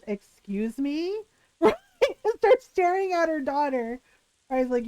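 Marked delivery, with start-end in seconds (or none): 0.1-1.2 indignant excuse me. Retold or imitated. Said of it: "And her mother goes".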